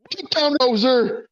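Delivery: high shrieked warning; scream. Acted. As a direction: yell it out in alarm, pitch flying up. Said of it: "and scream".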